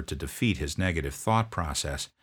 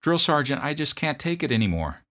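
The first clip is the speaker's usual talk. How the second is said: put-on much higher, strained young voice; pleading private; 9 semitones higher, 5 dB louder than usual. Homesick private begging his drill sergeant, high plea. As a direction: plead like a scared recruit.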